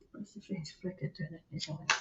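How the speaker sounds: murmured very softly; under her breath. Real, not acted. Rereading the question to herself, barely audible. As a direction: say it almost to yourself. Near-silent repeat of question.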